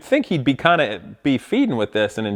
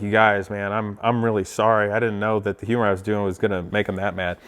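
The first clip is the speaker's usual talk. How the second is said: apologetic; 7 semitones lower, 5 dB quieter than usual. Retold or imitated. Retold apology on drive home.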